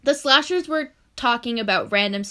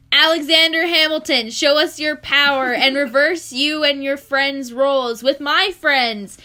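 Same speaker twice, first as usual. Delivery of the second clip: spell incantation; 4 semitones higher, 5 dB louder than usual. Acted. Casting a spell in fanfic.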